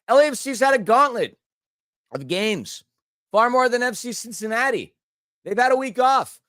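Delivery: talking with bad hiccups. Real, not acted. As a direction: push through the hiccups. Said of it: "These hiccups are getting pretty bad".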